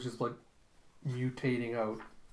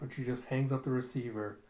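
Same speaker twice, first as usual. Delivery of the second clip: usual speaking voice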